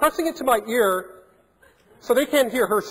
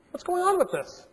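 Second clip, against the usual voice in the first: mock guard; 12 semitones higher than usual. Guard voiced complaining to supervisor.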